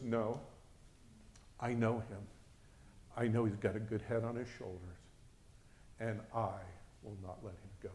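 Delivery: soft, measured assurance with pauses; loving voice. Retold or imitated. Voice assuring the worried mother, softly and firmly loving. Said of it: "it was a strong, loving voice".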